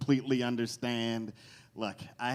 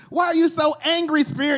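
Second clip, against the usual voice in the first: higher, louder scared question; movie character asking; 9 dB louder than usual. Acted. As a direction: ham up the horror movie victim. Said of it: "Somebody asks that stupid question".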